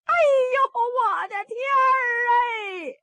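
high, fast wailing lament; crying out. Acted. Mother hears daughters ran off, crying out. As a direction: wail it out in tears. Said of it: "这盖子奶奶哭上了".

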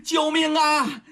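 high sustained cry for help; yelling for help. A narrator's reading. Abducted girl crying to passers-by for help, high strained yell. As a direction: stretch the voice high, drawing out the last plea. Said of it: "扯着嗓子喊呀".

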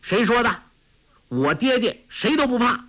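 put-on high, defiant boy's voice; a proud child's high retort. A narrator's reading. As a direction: chin up, refuse to back down. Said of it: "昂然说".

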